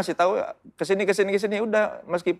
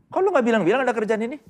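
mock annoyed wife; 5 semitones higher than usual. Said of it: "Jangan sampai dia tahu dari orang lain".

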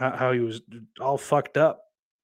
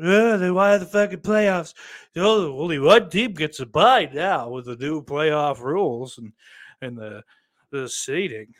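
a hint of a whiny pundit, higher and louder; mocking Skip Bayless; 4 semitones higher, 5 dB louder than usual. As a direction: parody the pundit's smug whine. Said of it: "Skip Bayless".

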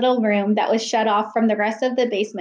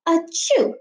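acted sneeze; 7 semitones higher than usual. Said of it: "her first sneeze".

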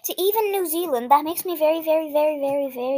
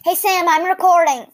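calling out; 4 semitones higher, 5 dB louder than usual. Real, not acted. Telling Sam across the house, calling out. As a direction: call out to Sam in the next room, a bit louder.

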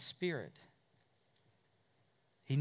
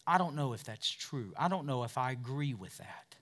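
doubting listener; 2 semitones lower, 3 dB quieter than usual. Retold or imitated. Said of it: "they go".

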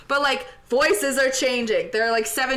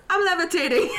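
put-on Italian accent; 4 semitones higher, faster than usual. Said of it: "in Italian accent".

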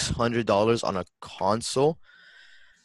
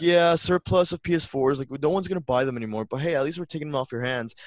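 cheeky clerk voice; 6 semitones higher than usual. Retold or imitated. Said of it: "they're gonna be like".

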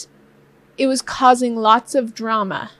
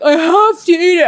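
louder, whiny fake-crying plea; mock whiny husband; 3 semitones higher, 5 dB louder than usual. Wife mimicking husband's excuse, in a mock whiny cry. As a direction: whine like a helpless snacker. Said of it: "you're like".

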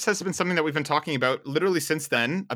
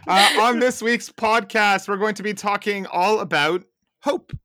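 announcer voice; 5 semitones higher, 5 dB louder, slower than usual. Acted. Mock announcer switch.

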